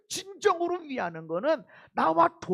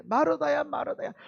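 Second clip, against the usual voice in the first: earnest plea. Retold or imitated. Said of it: "두 번 얘기하는 것은 간곡한 거예요".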